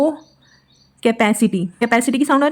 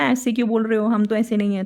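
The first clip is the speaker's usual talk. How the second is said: mock commenter; 5 dB quieter than usual. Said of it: "कोई comment करके मत बोलते ना".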